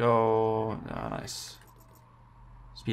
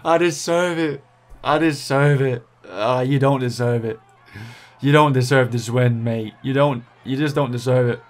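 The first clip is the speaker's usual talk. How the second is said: louder aggrieved insistence; indignant rant; 4 dB louder than usual. Real, not acted. Gamer ranting at the rider who stole his win, aggrieved. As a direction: protest the unfair result with force.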